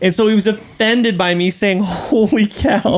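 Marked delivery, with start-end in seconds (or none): 1.8-3.0 "Holy cow" slow, a little higher; drawn-out demonstration. Shown as a demonstration. Dad explaining what offended the kid, "Holy cow" drawn out slowly. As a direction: stretch "Holy cow" out long. Repeats the misheard exclamation.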